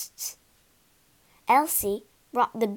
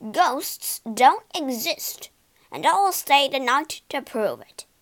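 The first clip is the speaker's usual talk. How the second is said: loud scoffing boast; 5 dB louder than usual. Acted. Boastful Slate declaring.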